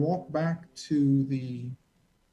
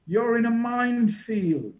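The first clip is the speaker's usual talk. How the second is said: retold warning shout; 7 semitones higher than usual. Men shouting from the truck.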